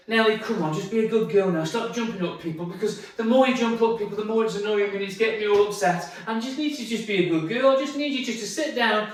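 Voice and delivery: lightly voiced pleading owner; mild run-on nagging; talking to dog like human. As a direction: reason with the dog as if it were a person. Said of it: "talking to the dog as if they're a human".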